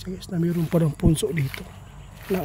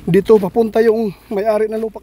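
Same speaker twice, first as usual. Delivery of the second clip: urgent alarm; 3 dB louder than usual. Real, not acted. Owner approaching, urgent.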